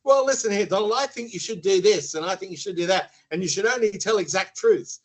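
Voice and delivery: imagined coach telling the president off, hammed up; mock coach lecturing. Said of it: "Can you imagine sitting there saying".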